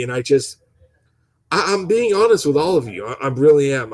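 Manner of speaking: stuttering. Real, not acted. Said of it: "I'm sorry I'm stuttering".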